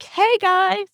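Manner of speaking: high, sing-song fake cheer; mock friendly greeting. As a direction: greet them with a sweet, phony brightness. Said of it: "And I'm like".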